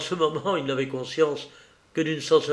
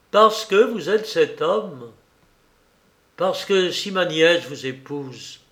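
scornful denunciation; 3 semitones higher than usual. Acted. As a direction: drive each accusation home with force. Villain's denunciation in acted dialogue.

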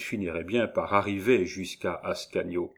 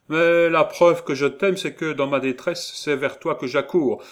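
raised-pitch, urgent declaration; fervent pleading; 7 semitones higher, 6 dB louder than usual. A narrator's reading. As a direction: plead your love in distress. Aubry pleads love to Gervaise. (plaidoyer fervent)

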